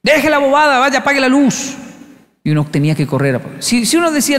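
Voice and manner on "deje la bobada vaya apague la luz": higher put-on stern old man; scolding grandpa. Grandpa ordering the scared kid to switch off the light, scolding. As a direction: bark it like a fed-up grandfather, pitched up.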